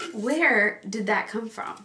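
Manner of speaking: slow puzzled repeat; slowed disbelief. Real, not acted. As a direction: stretch it out, baffled.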